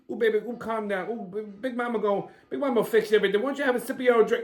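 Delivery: Big Mama. Acted. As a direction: purr it like a flirty auntie.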